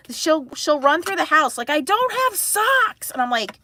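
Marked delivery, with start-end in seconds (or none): 1.7-3.1 put-on higher, slow whining child voice; whiny kid. Daughter running through house whining to mom, high whine. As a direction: mimic the kid whining about socks.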